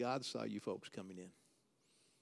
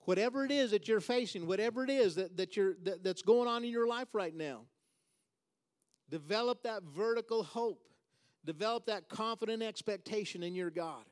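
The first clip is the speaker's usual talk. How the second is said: raised, higher-pitched preacher's exhortation; impassioned preaching; 6 semitones higher, 4 dB louder than usual. Real, not acted. Preacher urging the congregation to develop hope, impassioned preaching. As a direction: urge the congregation on, pitch lifted.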